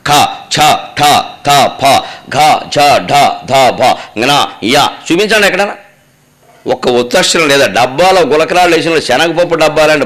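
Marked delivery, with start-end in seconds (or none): 0.1-4.9 each of ఖ, ఛ, ఠ a separate breathy-release syllable; aspirated letters demo. Shown as a demonstration. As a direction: recite ఘ, ఢ, ధ, భ one by one with full aspiration. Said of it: "ఎక్కడైనా ఉచ్చాక్షరం ఉందా?".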